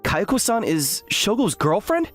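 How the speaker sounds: high, slow, incredulous question; stunned disbelief. Acted. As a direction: draw it out high, unable to believe it. Learns rival is dating his crush.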